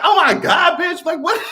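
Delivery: hammed-up yell of shock; mock shout. Retelling her shock at the finale, high mock shout. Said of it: "I was like".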